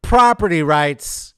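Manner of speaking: loud, slow, high repeat; emphatic repeat. Real, not acted. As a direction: boom it out slowly, letting it land. Repeats it for emphasis after pause.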